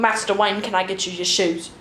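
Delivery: lightly mocked Cockney butler; Alfred. Mocking Alfred serving Batman, whipped-out Cockney. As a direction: whip out a butler's offer, mock Cockney. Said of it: "He just fucking whips words at you".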